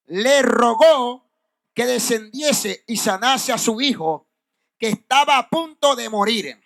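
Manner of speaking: drawn-out key words, pauses between phrases; scripture reading. Acted. Preacher reads of the official's dying son, emphatic scripture reading. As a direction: read the verse slowly and emphatically.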